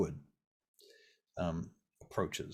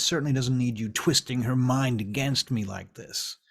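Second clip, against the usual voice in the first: angry telling-off. Acted. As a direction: defend your turf against a meddler. Vern tells Garwood off.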